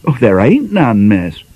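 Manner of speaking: a hint of a cockney servant girl; lightly voiced young maid. Maid explaining the tin to her mistress, mildly voiced.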